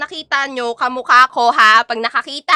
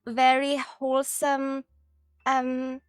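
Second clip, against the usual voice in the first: higher, put-on dainty English voice; sweet wholesome persona; 5 semitones higher, slower than usual. Streamer telling viewers how kind she is, sweet put-on voice. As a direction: play the innocent, super-kind VTuber.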